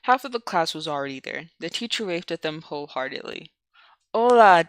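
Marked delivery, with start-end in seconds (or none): 4.1-4.6 cheerful greeting. Acted. Teacher greets enthusiastically.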